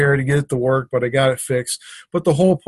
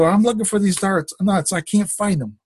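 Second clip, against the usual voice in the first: higher-pitched, mildly exasperated retort; worked up; 5 semitones higher than usual. Retold or imitated. Husband answering his wife about lost nuts, mildly worked up. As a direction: retell a worked-up reply, pitch raised. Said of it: "I'm getting kinda worked up".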